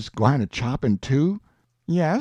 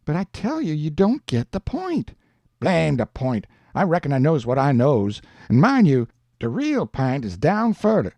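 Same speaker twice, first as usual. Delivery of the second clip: lightly voiced Jim in dialect, stubborn and lively; Jim, argumentative. Jim schooling Huck about Solomon, lightly voiced and insistent. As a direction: argue the point with a touch of indignation.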